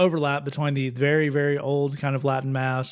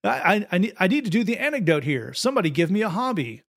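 improv preacher; 4 semitones higher, faster than usual. Pretend. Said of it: "You get the pastor up there".

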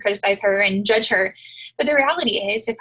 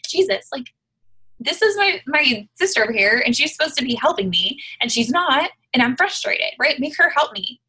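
much higher, louder exasperated plea; overwhelmed hostess pleading with Jesus, higher and louder; frustrated Martha; 4 semitones higher, 4 dB louder than usual. Retold or imitated. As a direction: beg Jesus to make her sister help. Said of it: "This is what I picture myself saying".

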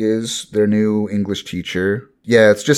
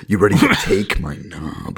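mock British echo through a chuckle; put-on British; British accent. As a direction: parrot the cheeky Brit. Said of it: "in a British accent".

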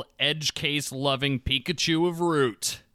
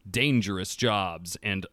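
measured, dramatic read-aloud with deliberate pauses; best reading voice; 4 semitones lower than usual. Real, not acted. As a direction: read the lore aloud, lowering the line endings. Reading faction lore aloud.

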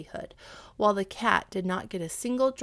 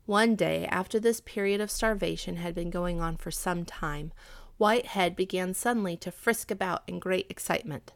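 lively storybook narration, a touch louder; story narration; 4 dB louder than usual. A narrator's reading. Narrator reading a fairy tale aloud to young listeners, lively. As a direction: tell the story to children with energy.

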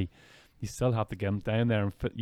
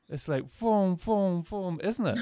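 excited; 7 semitones higher than usual. Real, not acted. Excited vivid description.

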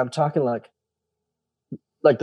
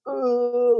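mock moan; 11 semitones higher than usual. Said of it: "like this moaning agony".

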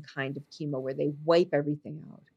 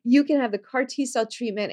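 higher-pitched, eager doctor pitch; very enthusiastic; 6 semitones higher than usual. Retold or imitated. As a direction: imitate a doctor keen on the next step. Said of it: "he's very enthusiastic".

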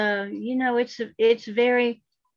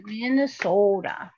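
put-on Minnesota accent; slower than usual. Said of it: "And that's how he said it".

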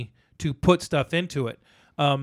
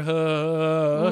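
drawn-out "huh" sound; imitated held breath. Imitating the crew as they stand there, a long huh. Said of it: "they're all standing there".

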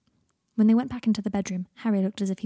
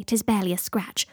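mock heroic. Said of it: "Aren't you supposed to say".

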